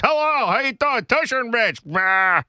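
exaggerated high Boston radio host; mock a Boston host's greeting; hammed-up Bostonian hello; Boston accent. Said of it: "when I talk like this".

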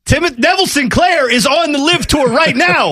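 high, giggly delivery through laughter; laughing while talking. Real, not acted. Host laughing at his own golf joke to co-host. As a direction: push the words out between laughs.

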